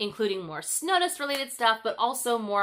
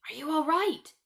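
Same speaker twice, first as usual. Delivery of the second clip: put-on worried girl; 7 semitones higher, 3 dB louder than usual. Gerda worried over Kay.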